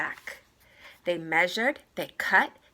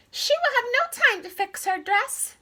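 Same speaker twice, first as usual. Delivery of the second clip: very high squeaky mouse voice; small creature fretting; little mouse voice; 5 dB louder than usual. Acted. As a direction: Jack the mouse worrying about the dress. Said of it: "said the skinny mouse named Jack".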